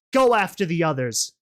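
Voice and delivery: loud, brisk command; barked order. Acted. Rainbow Dash sending guards after the others, ordering. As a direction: order the guards off over your shoulder. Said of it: "she ordered over her shoulder".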